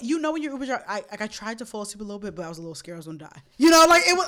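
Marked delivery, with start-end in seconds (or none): 0.9-3.4 hushed confession. Real, not acted. Confides fear in the car.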